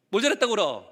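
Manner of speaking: measured mock maternal reproof; stern mother. Mother to her crying child, stern. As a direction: hold back, imitating a stern mom. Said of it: "엄마 뭐라 그래요?".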